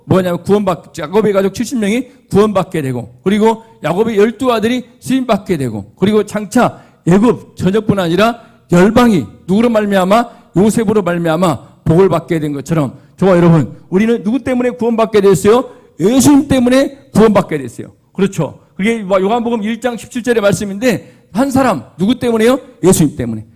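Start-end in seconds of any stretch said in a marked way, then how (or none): 6.0-17.9 loud, emphatic sermon delivery; forceful preaching. Real, not acted. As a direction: drive the point home to the congregation. (힘주어 외치는 설교)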